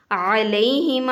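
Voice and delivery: علیہم with ع from the throat and ہ from the chest. Shown as a demonstration. Teacher models علیہم, slow and deliberate. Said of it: "عین کو پھر گلے سے نکالنا ہے".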